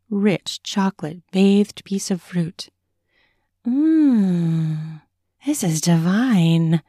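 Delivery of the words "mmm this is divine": talking through a mouthful; words round a bite of strawberry; mouth full. Acted. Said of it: "says with a mouthful".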